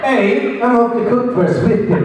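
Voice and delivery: lightly put-on Scottish accent; a hint of Scottish accent; mock Scottish accent. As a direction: try a Scottish lilt on the phrase. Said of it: "That was a Scottish accent with your".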